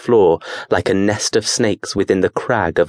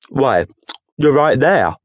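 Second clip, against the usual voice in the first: matter-of-fact; 3 semitones higher than usual. Acted. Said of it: "matter-of-factly".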